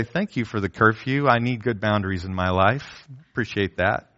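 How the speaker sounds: put-on a teen thanking parents for the curfew, sincere; sincere thanks. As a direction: thank them earnestly, gently. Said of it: "Or do you say".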